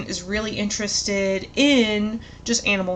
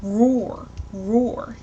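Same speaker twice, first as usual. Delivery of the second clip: modeled lion roar. Shown as a demonstration. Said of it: "So we wanna model".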